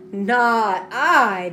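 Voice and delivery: loud, flat refusal; firm declaration. A narrator's reading. Young Tom refusing old Pat, a loud firm declaration. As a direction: slam the door on it. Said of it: "declared young Tom".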